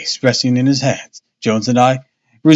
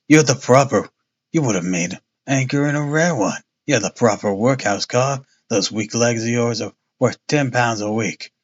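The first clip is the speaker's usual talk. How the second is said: Jones voice; 2 semitones lower, 3 dB quieter than usual. Acted. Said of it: "this is all Jones".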